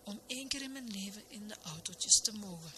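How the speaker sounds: soft, understated tearful longing; mildly sorrowful wish; slight sob. A narrator's reading. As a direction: plead softly, a touch choked up. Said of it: "zo sprak hij met een snik".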